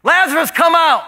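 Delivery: high ringing summons; loud call. Acted. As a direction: call him out of the grave. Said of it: "So he calls out".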